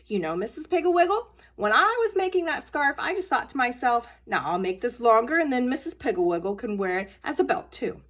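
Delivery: a hint of eager childish boasting; proud little girl. Julie proudly explains the long scarf to Mrs Pigglewiggle.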